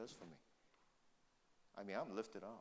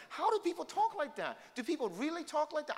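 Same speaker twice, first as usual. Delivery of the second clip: disbelief; 7 dB louder than usual. Retold or imitated. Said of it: "I said".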